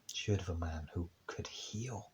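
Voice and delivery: hushed. Acted. Hushed storytelling repetition.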